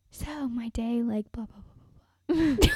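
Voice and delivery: whispered rambling; asmr whisper. Shown as a demonstration. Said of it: "whispered rambles".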